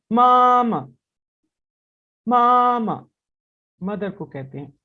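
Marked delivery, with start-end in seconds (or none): 0.1-3.1 मामा with a short light final मा, loud; neutral tone demo. Shown as a demonstration. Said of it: "उसको short करके और light वे में अदा करना है". (मामा, दूसरा मा हल्का और छोटा)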